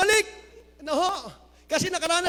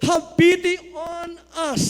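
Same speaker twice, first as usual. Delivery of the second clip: lepers calling out; 4 dB louder, slower than usual. Acted. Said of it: "called out in a loud voice".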